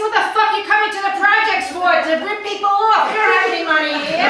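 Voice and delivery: fast, loud, high scolding burst; hammed-up furious telling-off; retold angry retort. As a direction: tear into the mugger. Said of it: "I said".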